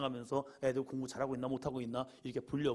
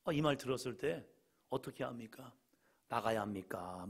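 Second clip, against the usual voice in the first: usual speaking voice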